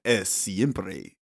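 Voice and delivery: slow, grand Spanish sports announcer. Pretend. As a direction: announce it like ESPN Deportes. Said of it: "That's, like, your announcer voice?".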